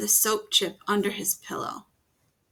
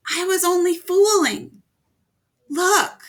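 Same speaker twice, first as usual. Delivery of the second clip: high, loud, fast pleading; pleading boy; 10 semitones higher, 8 dB louder than usual. A narrator's reading. Norman pleading with the monsters, high, loud and fast. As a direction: rush it out to convince them.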